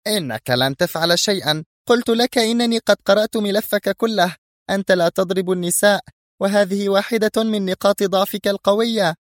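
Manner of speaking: high-pitched woman's voice, full of hate; hateful shriek. A narrator's reading. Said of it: "فصرخت في بغض". (صراخ مبغض بطبقة عالية)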